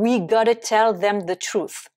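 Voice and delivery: "we gotta" with no V sound; shorter contraction. Shown as a demonstration. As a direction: drop the 've before "gotta". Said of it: "on n'a même pas apostrophe V E".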